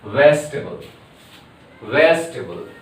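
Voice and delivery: vegetable said as vesh-table with a v; model word. Shown as a demonstration. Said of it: "Okay, vegetable".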